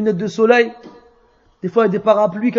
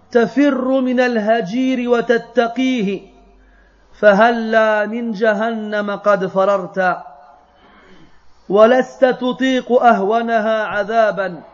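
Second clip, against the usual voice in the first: poem recitation. Acted. Teacher recites the poem's verses to students, measured verse recitation. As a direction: recite the verses in even, sustained phrases.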